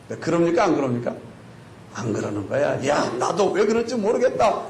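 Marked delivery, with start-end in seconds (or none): 2.9-4.6 acted-out exasperated grumbling; mock grumbling, rising in pitch. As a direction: complain at length as a disgruntled parent. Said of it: "투덜, 투덜".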